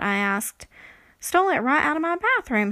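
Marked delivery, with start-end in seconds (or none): 1.2-2.7 fast, higher, louder indignation; incensed. Acted. Stormy telling the writer about her stolen hat, incensed. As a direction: spit it out, indignant. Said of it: "she said, incensed".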